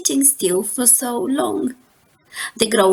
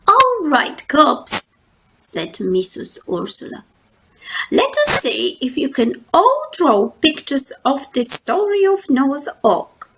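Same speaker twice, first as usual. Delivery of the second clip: lightly voiced teacher, a bit higher; a hint of teacher voice; old teacher; 4 semitones higher than usual. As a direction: call the class to order, lightly. Teacher addresses cubs.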